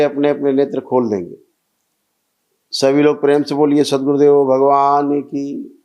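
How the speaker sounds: measured, sustained ritual-leader's voice; steady, carrying instructions to a praying group; guided meditation ritual. Real, not acted. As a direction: lead the gathering through each step, evenly intoned. Leads a group breathing and chanting ritual.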